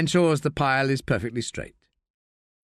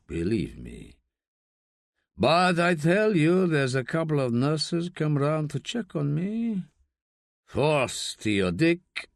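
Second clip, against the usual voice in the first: put-on gruff old father; 3 semitones higher, slower than usual. Rubio's voice again.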